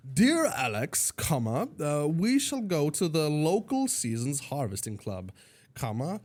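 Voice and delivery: mock-formal message dictation; dictating a text. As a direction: read out a text message, punctuation included. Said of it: "I'm writing".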